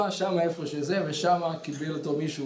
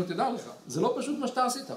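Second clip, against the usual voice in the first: raised-pitch lecturing reproof; relentless scolding; 3 semitones higher than usual. Retold or imitated. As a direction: keep pressing the rebuke on him. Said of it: "והוא המשיך להצליף בו".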